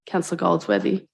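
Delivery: ordinary delivery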